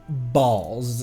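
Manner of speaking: ordinary talk, nothing marked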